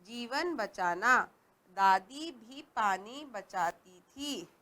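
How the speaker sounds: put-on slow, sing-song poem reading for children; poem recital. Shown as a demonstration. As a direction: recite it slowly to the class.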